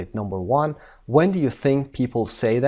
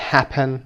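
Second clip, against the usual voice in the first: "happen" stressed on HAP; HAP-pen, weight up front; stress on first syllable; 2 semitones higher, 3 dB louder than usual. Shown as a demonstration. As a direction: lean on the first syllable of "happen", light ending. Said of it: "اونهایی که first syllable هستن".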